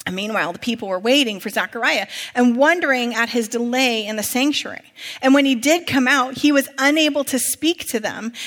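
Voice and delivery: measured public Bible reading; projected, story-like scripture narration. A narrator's reading. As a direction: read the passage out clearly to a congregation. Reads scripture aloud to congregation.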